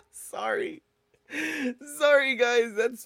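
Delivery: high, breathless apology through laughter; can't stop laughing while apologising. Real, not acted. Host apologises to viewers, laughing helplessly. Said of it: "don't know what I'm laughing at".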